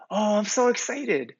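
squeal-like mock kid delight on a drawn "Oh"; brimming with joy. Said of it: "they will often respond with".

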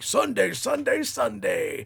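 high, hyped radio rally shout; monster truck announcer. Retold or imitated. Radio announcer hyping a monster truck rally, booming shout. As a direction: belt it like a rally promo. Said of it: "it sounds like a monster truck rally radio announcer".

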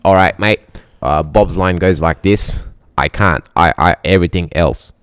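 lightly put-on Australian bloke; toned-down Australian mate voice; Australian Bob. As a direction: read it as an Australian chatbot. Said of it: "go to an Australian Bob over here".

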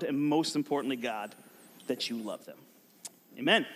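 softening, slowing prayer voice. Acted. Leads an opening prayer.

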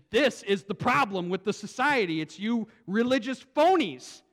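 mild, forceful accusation; lightly voiced indignant rebuke; Christ confronting. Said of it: "Christ coming there and".

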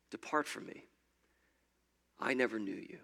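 breathy whisper, the words hanging in the air; whispered echo. Retold or imitated. Preacher repeating Jesus's rejection, whispered. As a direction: let the verdict echo in a hush.

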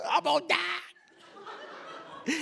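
high, drawn-out fake wail; comic, hammed-up weeping; mock crying. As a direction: sob it out melodramatically. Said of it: "I left the prayer meeting crying".

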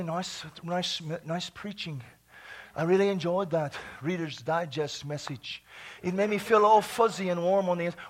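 low, subdued polite compliment; lightly mock a sedate, approving parishioner; prim and proper churchgoer. Churchgoer politely praising a tame sermon, lightly voiced prim manner. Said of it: "sits there real prim and proper".

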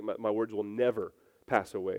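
never leaned on with a falling line; emphatic never; stress on never. Shown as a demonstration. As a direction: hit the word never firmly. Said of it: "It's an emphatic negation".

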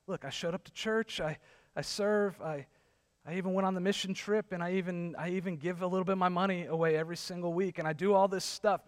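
lightly voiced defensive box-checker; self-justifying churchgoer.

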